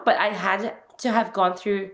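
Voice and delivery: hoarse voice. Real, not acted. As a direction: voice going hoarse, lost voice. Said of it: "sorry, I've kinda lost my voice".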